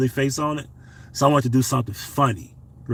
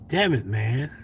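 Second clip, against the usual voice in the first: normal talking voice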